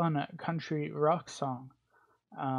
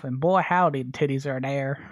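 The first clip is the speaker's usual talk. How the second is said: put-on country accent; 6 dB louder than usual. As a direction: say it like a loud country cowboy. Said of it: "I did my little country accent".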